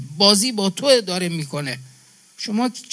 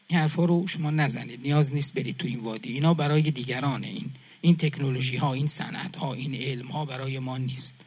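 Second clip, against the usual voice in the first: put-on softer, resigned retelling of the old teacher, fading away; hushed teacher's warning; 4 semitones lower, 5 dB quieter than usual. Preacher retelling his friend's teacher, voice dropping softer. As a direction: let the teacher's words sink low and sad. Teacher's discouraging words, retold.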